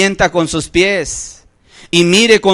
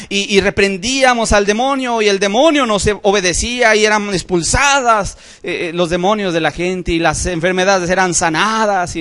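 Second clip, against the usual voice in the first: excited disciples; 4 semitones higher than usual. Retold or imitated. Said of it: "llegaban emocionados y decían".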